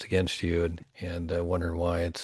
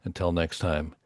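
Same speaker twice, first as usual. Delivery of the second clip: podcast host sign-off; 5 dB louder than usual. Real, not acted. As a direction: sign off the show to the listeners.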